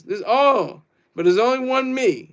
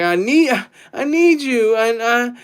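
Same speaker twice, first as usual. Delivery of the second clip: higher, mocking a clingy lover; mock needy simp; 4 semitones higher than usual. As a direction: pitch it up and send up a desperate suitor. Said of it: "some simp shit like that".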